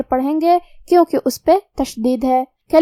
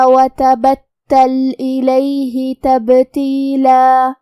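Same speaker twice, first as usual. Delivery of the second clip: very slow melodic tajweed chant; Quran recitation; much slower than usual. Shown as a demonstration. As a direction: recite the verse slowly, drawing out every long vowel. Recites the verse. (قرآن کی آہستہ ترتیل)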